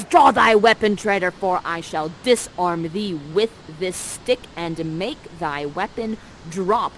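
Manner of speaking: commanding challenge, loud attack then slow; Prospera. Acted. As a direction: open with a loud order, then deliberate menace. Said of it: "Prospera says".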